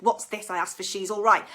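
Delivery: loud indignant mother; mock outrage at the wrong gift; indignant mum. Mum unhappy with her present.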